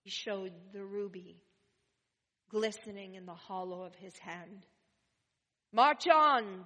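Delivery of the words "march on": loud order to his men; calling out. A narrator's reading. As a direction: bark it down the street. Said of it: "the captain called to his men".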